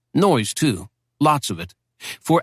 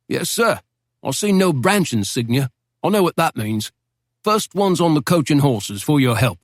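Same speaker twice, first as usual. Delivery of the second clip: a hint of an eager, courteous English barkeep; British barman; 3 semitones higher than usual. Barman speaks to the American officer.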